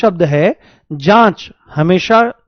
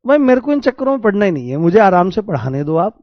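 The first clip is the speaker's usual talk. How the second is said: exasperated; faster than usual. Real, not acted. Exasperated teacher refusing the question.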